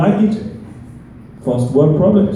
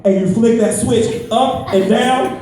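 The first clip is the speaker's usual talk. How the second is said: higher, impatient explaining; exasperated explanation; 6 semitones higher than usual. Retold or imitated. Annoyed collector explaining electricity over the phone, exasperated. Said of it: "This one girl got mad".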